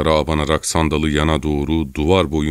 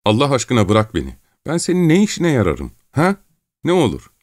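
high, whining desperate begging; panicky, tearful pleading; trembling plea; 8 semitones higher than usual. A narrator's reading. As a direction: implore fearfully to be let go. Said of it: "titrek bir sesle".

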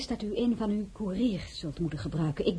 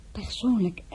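awed whisper. Acted. Flustered welcome of Lafayette.

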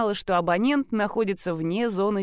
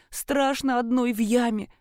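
put-on childlike complaint; 3 semitones higher than usual. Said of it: "по-детски пожаловалась".

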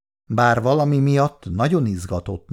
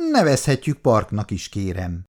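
proud; 3 semitones lower than usual. Acted. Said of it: "javította ki büszkén önmagát Péteri".

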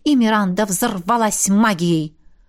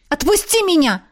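higher pitched outcry; crying out; 8 semitones higher than usual. A narrator's reading. Miranda cries out at Jav, higher outcry. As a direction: shout to be let go. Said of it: "выкрикнула Миранда".

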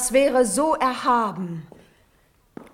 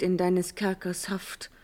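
whisper; 2 semitones lower, 5 dB quieter than usual. Acted. Natalie sends prince to prison.

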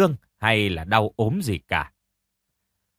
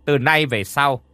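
higher, cruel threatening scold; scolding harshly; 4 semitones higher than usual. Acted. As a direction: threaten her coldly. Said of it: "mắng nhiếc".

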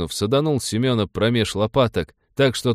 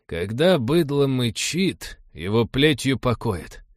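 smirking remark; 2 semitones higher, slower than usual. Acted. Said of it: "усмехнулся догадливо и проронил".

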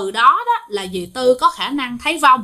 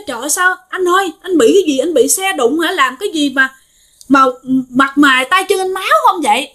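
higher-pitched retold alarm; mild shock, voice raised in pitch; alarmed questioning; 4 semitones higher than usual. Dì Tư asks the bloodied man what happened, mildly alarmed.

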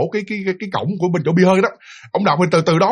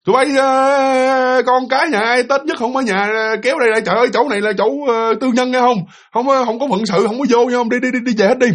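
raised, higher retold shout chasing people off; yelling; 5 semitones higher than usual. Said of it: "Thì ổng mới la lên".

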